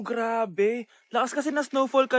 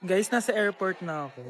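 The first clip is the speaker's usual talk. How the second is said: low, downcast vlog voice; subdued, heartbroken; 8 semitones lower than usual. Acted. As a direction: talk like a lonely traveler getting over heartbreak. Staged solo trip after heartbreak. (malungkot at mababang boses)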